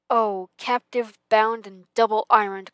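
loud, wailing phantom cry; loud ghostly lament; anguished cry. A narrator's reading. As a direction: cry it out in torment. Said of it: "cried the phantom".

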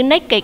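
put-on "naked" said in two syllables, nay-kid; two-syllable pronunciation. Shown as a demonstration. Teacher comparing adjectives for class, "naked" said as nay-kid. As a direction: sound the -ed in "naked" as a separate syllable. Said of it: "cũng đọc giống như câu A".

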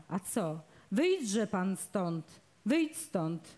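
plain reading voice

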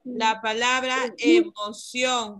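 slow, deliberate repetition. Real, not acted. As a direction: say it again slowly so she hears. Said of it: "No la escuché".

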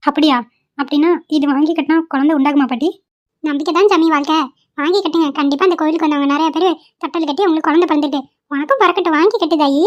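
a village granny gently urging a purchase; old granny. Acted. Old granny coaxing the young wife to tie a cradle, kindly.

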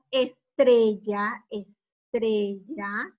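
slow ESTRELLA, lifted at the end; drawn-out model word. Shown as a demonstration. Teacher giving pupils the syllable tre, slowly stretched.

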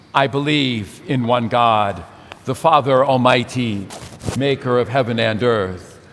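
steady, even-pitched congregational recitation; measured, solemn profession of faith in short, evenly paced phrases; creed recitation. Real, not acted.

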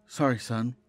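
horror story narration. A narrator's reading. Narrator recounting finding shadowy Polaroids on the bed, measured horror narration. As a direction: read a creepy tale with steady restraint.

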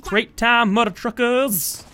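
rally yourself like a cartoon villain; gleeful mock yell; hammed-up battle cry. Battle cry before fight.

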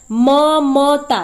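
slow, split into म and मता; syllable by syllable. Shown as a demonstration. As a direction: spell out म then मता slowly. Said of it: "ममता बोलते हैं".

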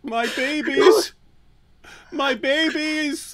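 very high, slow, loud mock wail. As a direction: wail for the lost videos like a parent, hammed-up. Mock grief over deleted videos.

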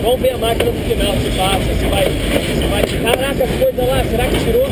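breathless excitement. Real, not acted. Shaken after running from train.

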